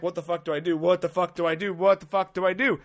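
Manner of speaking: rising repeated panicked question; panicked inner voice. Retold or imitated. Comic stuck with the crying lady, rising panic. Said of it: "I'm like".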